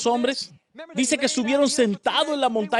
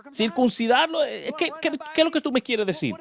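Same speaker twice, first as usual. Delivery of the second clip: higher, stunned disbelief; shocked wife; 6 semitones higher than usual. Acted. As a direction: gasp it out as the startled wife. (la esposa de Moisés, incrédula y sorprendida)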